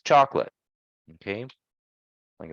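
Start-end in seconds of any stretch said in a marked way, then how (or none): 0.0-0.5 chocolate as CHOK-lit, no middle vowel; chocolate squeezed into two syllables; two-syllable pronunciation. Shown as a demonstration. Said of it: "we just have two syllables".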